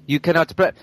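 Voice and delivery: slow, lightly put-on French accent; mock French accent. Podcast host mocking a French YouTuber, slow mock French accent. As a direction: drag it out in a jokey French accent. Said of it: "He has a French accent".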